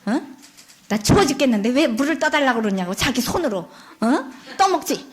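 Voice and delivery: put-on sulky, rude girl snapping back; spoiled daughter to grandmother, rude; rude reply. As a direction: talk back rudely. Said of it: "이러는 거예요".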